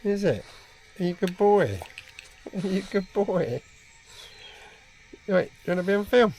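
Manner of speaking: high sing-song voice for a pet; talking to a dog. Real, not acted.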